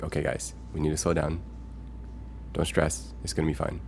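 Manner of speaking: mild demo of a calming voice. Shown as a demonstration. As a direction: gently talk stressed listeners down. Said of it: "if I'm trying to calm someone down".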